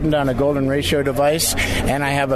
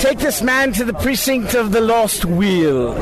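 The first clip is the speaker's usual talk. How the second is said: high, sing-song cartoon voice; vintage cartoon voice; 6 semitones higher than usual. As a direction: ham it up like an old cartoon. Guest does cartoon voice.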